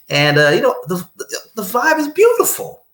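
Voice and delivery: high, sing-song and dreamy. Real, not acted. Describing the blissful day, in a dreamy high lilt. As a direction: float it up like bliss.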